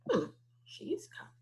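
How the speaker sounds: breathy wondering whisper; musing whisper. Real, not acted. Teacher wondering aloud to her class in a hushed voice. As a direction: puzzle over the word under your breath.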